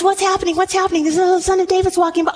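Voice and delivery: excited beggar calling out; eager blind beggar. Acted. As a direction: ask around urgently like a blind man.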